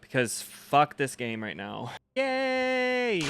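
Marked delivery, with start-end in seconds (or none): 2.2-3.2 high squealed yay; a sudden high-pitched cheer; excited cheer. Real, not acted. Cheering for viewer's cat love.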